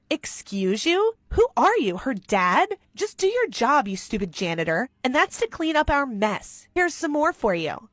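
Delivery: put-on high, sneering rich-girl scorn; snobby contempt. Rich girl belittling the janitor, sneering. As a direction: look down your nose at him.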